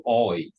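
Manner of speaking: "oi" for I, rounded oi vowel; Brummie oi. Shown as a demonstration. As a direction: Birmingham "oi" instead of I. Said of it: "I" become".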